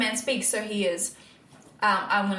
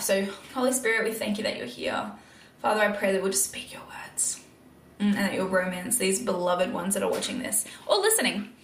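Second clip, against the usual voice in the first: prayer. Real, not acted. Opens a prayer for viewers.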